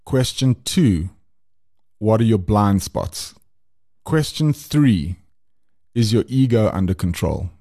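driving instructor. Acted. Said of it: "those first three questions sounded like my driving instructor".

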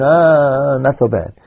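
a long drawn-out "Ah", lightly dismissive; mildly acted indulgent shrug; mock tolerance. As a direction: lightly imitate someone waving it off. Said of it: "he's not being tolerant".

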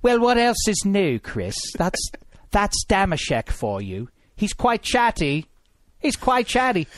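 a lightly put-on folksy voice, lifting on chatty; lightly voiced old-timer gossiping; a hint of a put-on accent; Handsome Hank voice. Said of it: "people wanna hear me do your accent".

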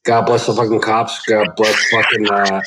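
echoey caller on a phone line. Real, not acted. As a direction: sounds like calling from an empty hallway. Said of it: "I'm hearing an echo".

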